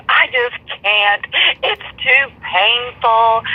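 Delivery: slow, high, over-dramatic mock sigh of a line; mimicking the ex-friend as a drama queen; mock melodramatic. Teller mocking ex-friend's drama over the dog, slow and hammed-up. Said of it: "could we be more dramatic".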